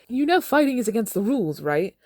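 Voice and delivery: high, fussy reprimand; prim scolding. Acted. Effie scolding Katniss for fighting, prim high voice. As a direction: scold them like a chaperone.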